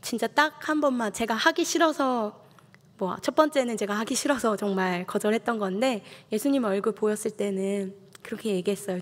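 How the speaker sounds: earnest sermon voice, steady and heartfelt; preaching testimony. Acted. Preacher recounting his vow to the congregation, earnest. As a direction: tell the congregation your story with conviction.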